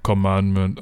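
"commandment" said in a peculiar, drawn-out way; odd pronunciation. Shown as a demonstration. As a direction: repeat the odd "commandment" to oneself. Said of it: "I don't know why I said it like that".

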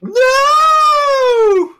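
long, high, loud "no"; drawn-out cry of no. Real, not acted. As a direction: wail one long high no. Mock outcry at what was shown.

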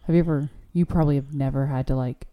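speaking into the back of the mic; muffled, off-mic voice. Real, not acted. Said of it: "You sound muffled".

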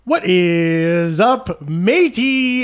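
lightly voiced pirate. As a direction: greet them like a pirate. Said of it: "Talk Like a Pirate Day".

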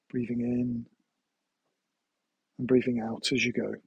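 calm, measured guided-meditation voice. Acted. Meditation teacher guiding listeners through a body scan, calm guided meditation. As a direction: guide them gently through a body scan, leaving long pauses.

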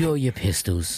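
slow mock-gunslinger challenge; Red Dead voice. Shown as a demonstration. Challenging Montgomery to a duel, hammed-up Red Dead voice. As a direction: draw it out like a Western showdown. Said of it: "Wanna hear my Red Dead voice?".

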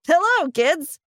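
put-on a friendly ice cream man greeting children; cheerful. A narrator's reading. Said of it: "he said cheerfully".

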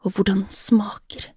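soft, understated murmur. A narrator's reading. Bjørn to the woman he loves, murmured. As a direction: murmur it softly, as if close by. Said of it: "mumlet Bjørn".

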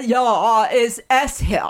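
mock posh English accent. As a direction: put on an English accent for the quote. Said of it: "Is that a good English accent?".

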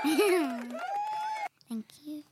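high breathy giggle then whispered thanks; giggle, then breathe a thank you; giggly thanks. Real, not acted. Kid thanks mum, giggling.

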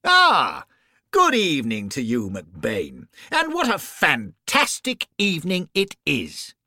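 lightly voiced cheerful ghost; ghost character. Ghost Grover greeting McBain, a lightly voiced cheery spirit.

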